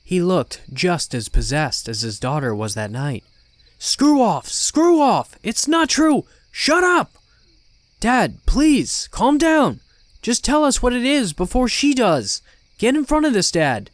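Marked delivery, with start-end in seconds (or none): 3.8-7.1 very high, loud screamed denial; frantic shouting. Acted. Enraged father shouts down the demon. 8.0-13.9 high, loud pleading with a father; desperate shouted appeal; crying out. A narrator's reading. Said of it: "I cried out".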